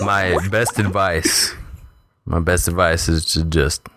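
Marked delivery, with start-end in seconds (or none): 0.1-1.5 slow, gas-deepened voice; heavy gas voice. Real, not acted. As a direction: talk slowly through the heavy gas. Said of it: "so you sound really deep".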